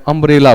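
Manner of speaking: अम्ब्रेला opened with a short a, not yu; teacher contrasts अम्ब्रेला with wrong यूम्ब्रेला; correct sound. Shown as a demonstration. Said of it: "आप इसको यूम्ब्रेला नहीं बोलते हैं".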